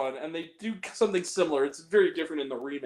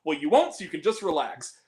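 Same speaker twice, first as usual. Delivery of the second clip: lightly imitating Alfie; 2 semitones higher than usual. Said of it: "And he goes".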